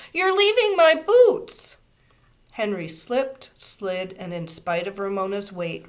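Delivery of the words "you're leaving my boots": put-on high, loud, slow child's wail. A narrator's reading. Little girl wailing at the boy who left her boots. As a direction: wail it out in dismay. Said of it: "she wailed".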